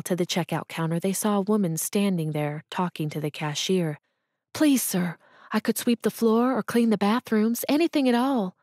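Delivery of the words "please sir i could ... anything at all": a lightly voiced desperate mother, pitched up; pleading mother. Jobless mother begging the cashier for work, pleading.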